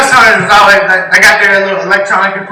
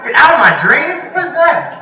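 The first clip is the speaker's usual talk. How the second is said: higher hushed spooky replay of get out of my dreams; half-mimic the ghost, hushed; mock ghost hunter quoting; 8 semitones higher, 3 dB quieter than usual. Ghost hunter replaying eerie words, high hushed mock voice. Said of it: "It's like".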